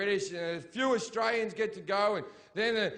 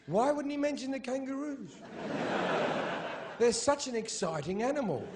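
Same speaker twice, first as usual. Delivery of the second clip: higher mock excited believer; naive wonder; 7 semitones higher than usual. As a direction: ask it wide-eyed and silly.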